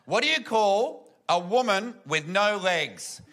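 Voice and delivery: slow, drawn-out tipsy joke delivery; drunk cousin. Retold or imitated. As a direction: imitate a wasted woman reading out a joke. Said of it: "way too white girl wasted".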